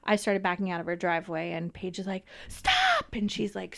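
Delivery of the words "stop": high, piercing cry of stop; retold scream. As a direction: imitate a child's panicked scream, pitch shooting up.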